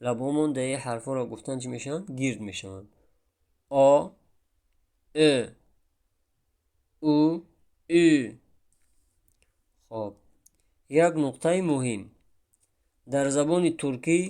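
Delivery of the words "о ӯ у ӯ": О, Ӯ, У sounded loud with rounded lips; rounded vowels demo. Shown as a demonstration. Teacher shows rounded lips on Turkish vowels. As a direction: push out each rounded vowel. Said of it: "ба лабҳои гирд".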